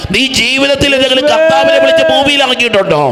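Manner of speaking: impassioned high-pitched exhortation; fervent preaching. Retold or imitated. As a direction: testify with passion, then challenge the crowd. Preaching retold testimony and challenge.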